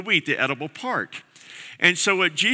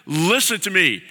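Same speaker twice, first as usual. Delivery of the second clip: earnest loving plea. Retold or imitated. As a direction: plead with a close friend to listen. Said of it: "he's looking at them going".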